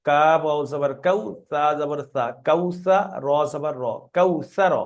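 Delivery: syllable by syllable, then joined into one word; teacher spelling aloud; spelling drill. Shown as a demonstration. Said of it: "প্রথমে বানান করবেন".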